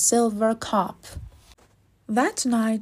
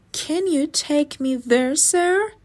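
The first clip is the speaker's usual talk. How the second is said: eager rising plea, higher at the end; 6 semitones higher than usual. Acted. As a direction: ask hopefully, pitch lifting on sir. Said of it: "Astrid asked eagerly".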